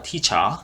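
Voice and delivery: "teacher" with the final R dropped; British non-rhotic R. Shown as a demonstration. Teacher shows learners British "teacher", final R left silent. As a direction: say "teacher" British-style, ending in an open "uh". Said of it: "R 발음이 별로 안 들리죠".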